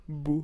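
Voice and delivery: loud, effortful try at "beau"; attempted closed O. Shown as a demonstration. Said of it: "J'arrive pas à dire".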